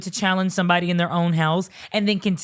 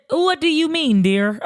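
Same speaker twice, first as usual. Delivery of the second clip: high, hammed-up baffled question; mock incredulous; 6 semitones higher, 4 dB louder than usual. Sister questions the girlfriend's soulmate claim, mock incredulous. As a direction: question it high and theatrical, dropping on the last word.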